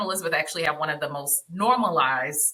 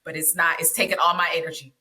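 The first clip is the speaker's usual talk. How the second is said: exhausted, half asleep; 3 semitones lower than usual. Retold or imitated. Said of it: "being like".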